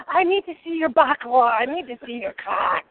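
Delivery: march up and demand to see the fish; boss lady. Retold or imitated. At the fish counter, demanding boss lady voice. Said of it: "I was on boss lady mode".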